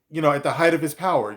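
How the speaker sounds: ordinary talk, nothing marked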